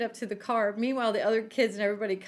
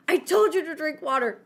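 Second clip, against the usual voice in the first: raised, higher scolding voice; mock yelling; 5 semitones higher, 4 dB louder than usual. Retelling Ted scolding his sick partner, mock yelling. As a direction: imitate a cross telling-off. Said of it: "he's yelling at Carly".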